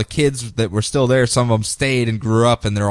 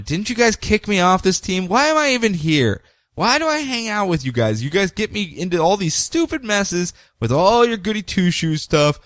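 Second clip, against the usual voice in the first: a light retold gripe, a touch higher; griping Constantine; 5 semitones higher than usual. Constantine griping at his chained-up teammates, lightly mock-whiny. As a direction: grumble through the whole complaint, mildly put on. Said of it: "Constantine is just griping and complaining".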